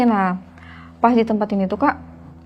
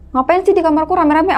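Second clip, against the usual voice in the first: higher-pitched, mildly surprised question; retold startled question; 6 semitones higher than usual. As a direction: reenact waking up puzzled by a crowd. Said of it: "aku kaget kan".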